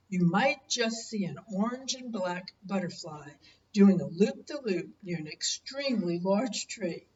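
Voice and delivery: gentle storybook reading voice; story narration. Acted. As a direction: read it like a bedtime picture book. Grandparent reads picture book aloud.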